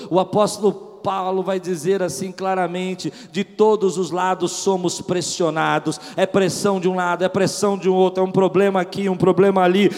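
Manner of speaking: loud, fervent pulpit preaching; full-force preaching. Acted. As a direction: preach it out to the whole church.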